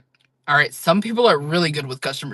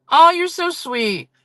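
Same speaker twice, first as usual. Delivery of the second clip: much higher, slow, drawn-out gush on Oh; gushing thanks; 12 semitones higher, 5 dB louder, slower than usual. Real, not acted. Streamer gushing over a sweet chat message, high slow gush.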